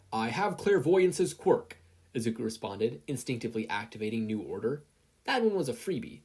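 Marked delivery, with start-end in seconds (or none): 0.1-1.8 slow, loud, high deliberate command; deliberate declaration. Acted. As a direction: spell out each word with power. Deliberate quirk activation.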